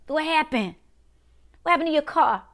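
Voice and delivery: high, incredulous questioning that builds; acted dismay, pitched high and rising to an outburst; dismayed disbelief. Acts out dismay at sudden loss.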